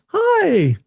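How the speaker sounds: high, lightly voiced gadget; a squeaky little hi; monitor voice. Monitor greets the computer, high voice.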